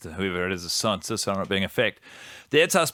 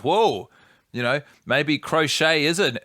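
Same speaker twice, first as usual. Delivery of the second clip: surprised; 5 semitones higher, 3 dB louder, slower than usual. Retold or imitated. Retold shocked reaction.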